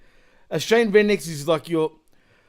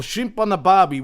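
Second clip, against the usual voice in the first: higher mock-Australian catchphrase; stereotype Aussie; 4 semitones higher, 4 dB louder than usual. Australian mocking a cliche nobody uses, exaggerated Aussie. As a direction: parody the tourist-ad Aussie, pitched up. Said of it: "We don't go around saying".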